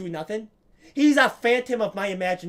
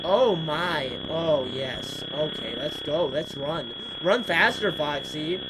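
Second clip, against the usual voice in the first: lightly put-on low voice; low, subdued play-acting; mock character commentary; 4 semitones lower, slower than usual. Player acts out Foxy's run, low mock-character voice.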